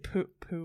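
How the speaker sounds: "pool" with an imitated Queensland vowel. Host showing the guest how she said it, imitated pronunciation. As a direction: mimic a different way of saying "pool". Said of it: "you said it a lot different".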